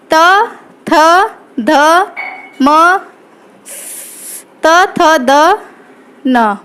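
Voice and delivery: tongue touching the teeth on त, थ, द, न; isolated dental syllables, paused between; dental letter demo. Shown as a demonstration. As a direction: sound out त, थ, द, न in separate beats. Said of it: "जीभ होती है वो दंत पर टच होती है".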